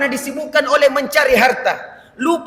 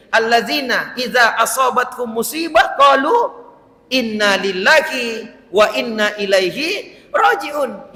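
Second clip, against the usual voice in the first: Quranic recitation; 2 semitones lower, slower than usual. Acted.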